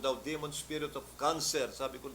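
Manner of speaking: preacher rebuking a demon; rebuking command. Retold or imitated. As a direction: cast the demon out with full force. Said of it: "nirebuke ko yung demonyong cancer".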